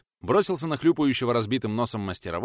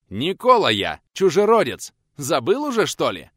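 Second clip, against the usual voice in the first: angry snap; 5 semitones higher, 8 dB louder than usual. Acted. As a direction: snap back, high and loud. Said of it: "Зло огрызнулся". (зло огрызается, громко и высоко)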